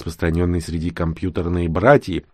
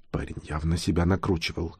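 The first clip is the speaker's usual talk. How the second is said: ordinary delivery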